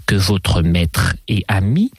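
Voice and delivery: lightly voiced lady, teasing and sing-song; mademoiselle enjouée. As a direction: play a chatty lady with swooping intonation. (demoiselle légèrement taquine, intonation chantante)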